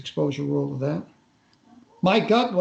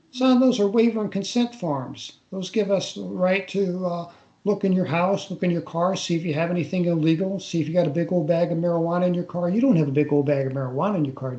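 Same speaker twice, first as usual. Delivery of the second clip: put-on a lightly done Southern accent, rattling off the second half quickly; imitated Southern major. Retelling the interrogating major explaining the forms, light Southern accent. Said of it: "the guy with the Southern accent".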